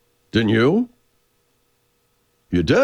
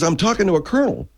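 sergeant recalling; 3 dB louder than usual. Retold or imitated. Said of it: "He says".

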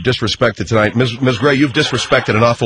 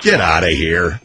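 shout; 8 semitones lower than usual. Real, not acted. Host bursts out.

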